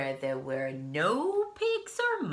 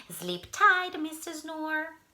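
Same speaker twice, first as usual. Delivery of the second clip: much higher sweet farewell; sing-song bellhop; 12 semitones higher, 4 dB louder than usual. Acted. Bellhop saying goodnight, sing-song. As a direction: wish him goodnight sweetly.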